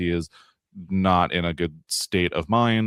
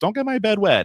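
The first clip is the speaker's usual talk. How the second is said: put-on scream, way up very high; 3 dB louder than usual. Retelling a fight scene, imitating someone screaming. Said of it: "someone screams, like".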